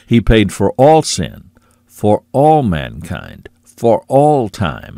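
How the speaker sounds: all leaned on, slow and weighty each time; stress on all. Shown as a demonstration. Preacher to his flock, hammering all. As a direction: drive home the word all in every phrase. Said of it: "I'm emphasizing the word all".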